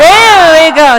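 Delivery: loud, high, slow praise; cheering shout. Real, not acted. Leader loudly cheers the circle's chant. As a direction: reward them with a big call.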